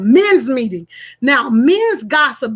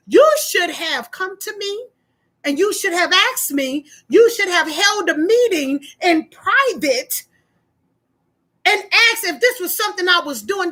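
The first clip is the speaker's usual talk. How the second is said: higher-pitched, measured retold reproach; indignant rebuke; 5 semitones higher than usual. Church member telling pastor he should have asked, indignant. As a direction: lay out each reproach to the pastor.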